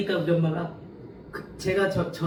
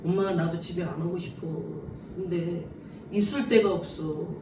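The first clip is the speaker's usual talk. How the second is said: retold sob; 5 dB quieter than usual. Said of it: "내가 이렇게 울먹거렸으니까".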